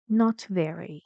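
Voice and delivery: "very" gliding down in pitch; falling tune on "very"; falling intonation. Shown as a demonstration. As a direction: let the voice drop on "very". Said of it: "داره میاد پایین".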